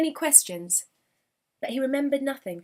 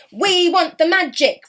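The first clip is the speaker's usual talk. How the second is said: loud, higher goblin roar; loud and raised, a mob of goblins demanding; 6 semitones higher, 8 dB louder than usual. Acted. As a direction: goblins bellow their demand. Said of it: "roared the goblins".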